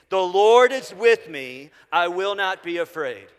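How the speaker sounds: slow, loud declaration with conviction; emphatic, drawn-out group declaration; like you mean it. Shown as a demonstration. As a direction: say it like you mean it, leaning hard on LORD. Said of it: "say it this time like you mean it".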